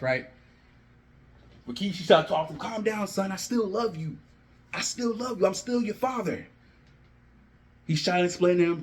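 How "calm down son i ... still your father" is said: softer, gently pleading father; calm a son down, softly and a little higher; lekko odegrany ojciec, łagodnie. Acted. Father soothing his angry son.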